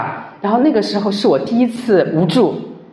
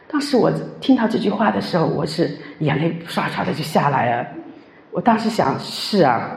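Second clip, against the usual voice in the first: tearful; 5 dB quieter than usual. Retold or imitated.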